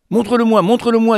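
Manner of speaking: voix plus aiguë, pressée et impatiente; elle trépigne d'envie de voir l'oiseau; impatient. Acted. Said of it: "dit-elle, impatiente". (impatiente, elle supplie de voir l'oiseau)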